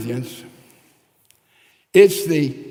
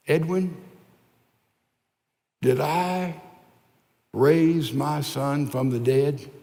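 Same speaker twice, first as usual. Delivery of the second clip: gentle Lord; slower than usual. Acted. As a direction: ask it like a patient father. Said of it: "answer very, very gently".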